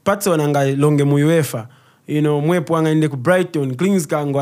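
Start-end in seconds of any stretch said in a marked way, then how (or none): 0.0-1.7 mock impressed parent. Parent suddenly impressed by a football star. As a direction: play the parent suddenly won over. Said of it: "waona ti".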